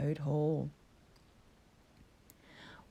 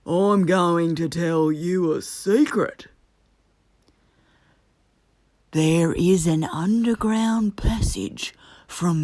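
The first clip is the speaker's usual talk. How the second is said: conspiratorial Badger; 6 dB louder than usual. A narrator's reading. Badger confiding a secret plan to Toad, conspiratorial. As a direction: lean in to share a secret.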